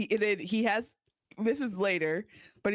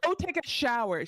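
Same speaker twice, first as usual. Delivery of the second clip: mock intercom announcement; 4 semitones higher than usual. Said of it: "She says it to every, oh, on the intercom".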